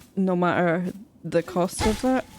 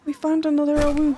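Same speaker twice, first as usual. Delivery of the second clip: excited; 7 semitones higher, 3 dB louder, faster than usual. Real, not acted. Repeats the find faster.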